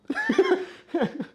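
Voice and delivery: shrill burst of laughter, far above the speech; a squealing giggle at the joke; high squeaky laugh. Real, not acted. Streamer cracking up at the joke, high squeaky laugh.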